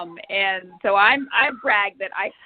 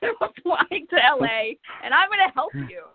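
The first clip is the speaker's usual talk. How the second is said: excited announcement; 8 semitones higher than usual. Retold or imitated. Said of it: "the next thing she says".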